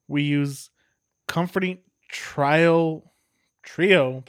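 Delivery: ad copy read aloud; label read. Acted. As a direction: read it like a beer ad. Reads the brewery's label text.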